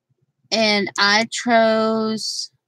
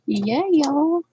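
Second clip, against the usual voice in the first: raised, drawn-out greeting; lightly mimicked YouTuber hello; James Lee impression; 5 semitones higher than usual. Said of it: "I sound like James Lee".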